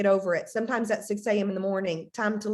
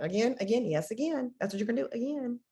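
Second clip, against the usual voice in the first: bored repetition; 5 dB quieter than usual. Retold or imitated. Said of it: "we can be very bored about it".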